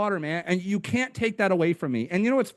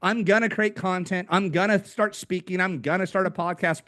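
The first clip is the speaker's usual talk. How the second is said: higher-pitched list of boastful plans; mock eagerness; 4 semitones higher than usual. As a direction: imitate a dreamer reeling off big plans. Mimics people boasting of plans.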